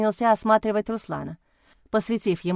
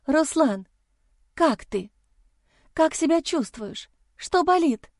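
higher, anxious questions to the injured man; worried heroine voice; 7 semitones higher, slower than usual. Acted. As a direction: rush to him, frightened for him. (взволнованная героиня, голос выше)

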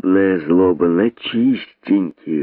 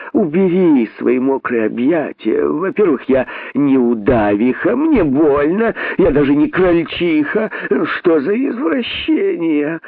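pained rabbit squeal; 8 semitones higher than usual. Acted. Rabbit squeals while being strangled.

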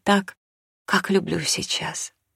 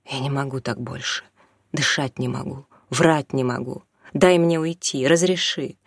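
desperate pleading; 3 semitones higher than usual. Acted. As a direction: beg him to let her go, voice rising to breaking. Mother pleads desperately, rising.

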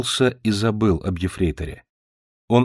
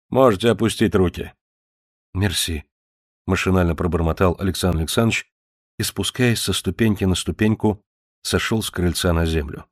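ordinary delivery, nothing marked

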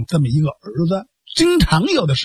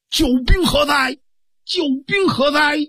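pitched-up mock shout of a brash boy; calling out high; 7 semitones higher than usual. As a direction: bellow for the reinforcements, stagey. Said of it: "高声喝喊".

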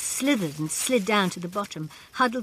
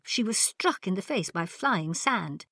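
ordinary delivery

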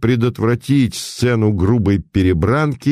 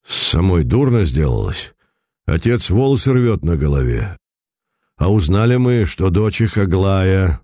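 put-on old merchant. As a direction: tell it like a worried old moneybags. Старик-миллионер рассказывает Путилину. (слегка озвученный старый купец)

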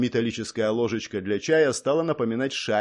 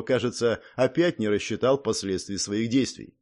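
usual speaking voice

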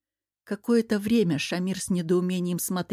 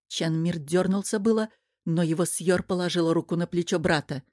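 plain reading voice

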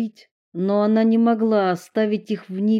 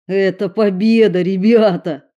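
glad cry of victory, louder; happy shout of a win; joyful exclaim; 7 dB louder than usual. A narrator's reading. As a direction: cheer the friends on. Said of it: "радостно воскликнул Эрик".

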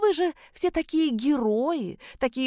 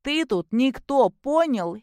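spiteful; 7 semitones higher, slower than usual. Acted. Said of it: "зло сощурив глаза".

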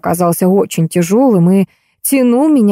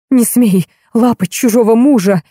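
yelling; 3 semitones higher than usual. A narrator's reading. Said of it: "заорала она".

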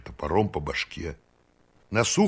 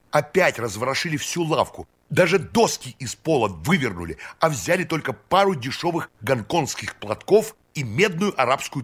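put-on high, eager voice of an eccentric old count; excited eccentric count; 7 semitones higher than usual. A narrator's reading. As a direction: bubble over with eager excitement.

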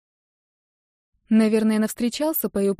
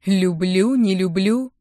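dismissive; 5 dB louder, slower than usual. A narrator's reading. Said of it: "отмахнулась величественная его мать".

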